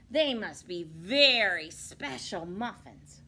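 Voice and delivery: loud, slow sly wolf; a greedy wolf leaning in. Acted.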